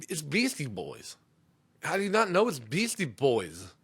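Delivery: put-on incredulous dad correcting his kids; a touch of mock outrage; mild exasperation. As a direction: scold lightly in disbelief. Exasperated at kids not knowing band.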